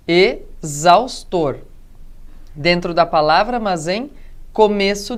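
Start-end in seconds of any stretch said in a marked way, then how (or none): 0.1-1.6 drawn-out exaustor, break after the first vowel; split word. Shown as a demonstration. Teacher showing a sound inside the word, slow and split. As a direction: stretch exaustor slowly, e... zaustor.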